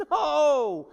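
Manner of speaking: high, loud outburst; emphatic shouted no. Acted. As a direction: cut in with a forceful shout. Rejecting sitting by silently.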